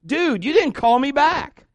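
loud, high, indignant comeback; acted indignant outburst; tempted retort. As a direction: snap back with drawn-out indignation. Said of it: "he's tempted on the phone to say".

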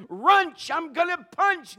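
loud, slow comic yell; mock angry shout. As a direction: fake a furious outburst for laughs. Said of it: "First word sounds like".

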